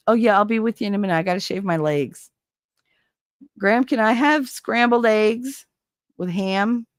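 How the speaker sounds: everyday New Jersey accent. Shown as a demonstration. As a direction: demo of Jersey vowels. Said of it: "talk to me with that Jersey accent".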